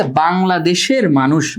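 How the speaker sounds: slow quoted example. Shown as a demonstration. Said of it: "দেখো কি বলতেছে".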